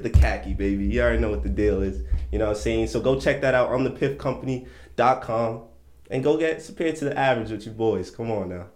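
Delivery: smooth host plugging merch; ad read. Acted. Host reading an ad break for the fans, smooth. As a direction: sell the new colors like a host.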